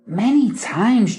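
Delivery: MANY TIMES slowed right down and emphasized; slow emphasis. Shown as a demonstration. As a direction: stretch out MANY TIMES with weight. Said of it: "slowed down and emphasized many times".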